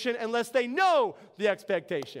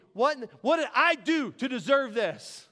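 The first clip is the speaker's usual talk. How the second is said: indignant, mildly raised voice; mock angry protest. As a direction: act out an aggrieved protest. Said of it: "I am gonna be angry".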